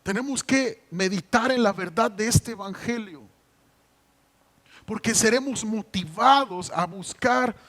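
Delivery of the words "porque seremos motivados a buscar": drawn out and shouted, much louder and higher; preaching shout. Real, not acted. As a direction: cry out the word slowly from the pulpit. Preacher's climax on holiness. (grito lento de predicador)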